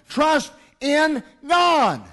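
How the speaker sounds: a slow ringing proclamation; solemn quote. Acted. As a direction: deliver Jesus' words slowly and grandly. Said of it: "Jesus said".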